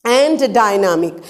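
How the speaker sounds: slow, drawn out dynamic; slow read. Shown as a demonstration. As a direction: dictate slowly to the class. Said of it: "সেই জন্যই বলা হচ্ছে ভাষা হলো". (ধীরে ধীরে বলা)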